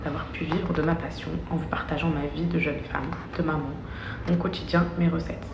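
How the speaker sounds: measured, careful statement reading. Acted. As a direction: read it like a prepared apology. Reads her written statement.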